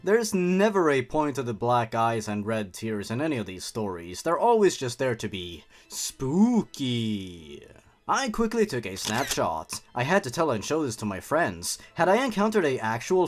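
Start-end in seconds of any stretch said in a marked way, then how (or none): 4.2-7.7 sarcastic aside. Real, not acted.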